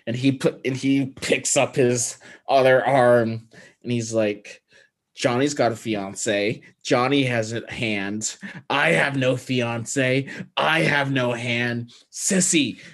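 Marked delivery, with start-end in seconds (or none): 5.1-12.8 hammed-up Nick Cage at full drama; overacting Nick Cage. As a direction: drag out each line with mock tragic intensity. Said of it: "you were acting at an eleven".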